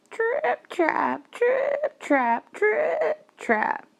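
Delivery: loud see-sawing trip-trap; heavy hoof sounds. A narrator's reading. Storyteller voices the big goat crossing, loud see-sawing hoofbeats. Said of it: "billy goat was so heavy".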